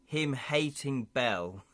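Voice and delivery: slow, drawn-out hobgoblin warning; tipsy-sounding hobgoblin. Acted. Hobgoblin warning the party of a thief, slow drunken creature voice. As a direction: stretch each word like a drunken hobgoblin. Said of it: "This hobgoblin's been drinking, clearly".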